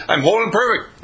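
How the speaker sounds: bold declaration. Pretend. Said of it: "He says".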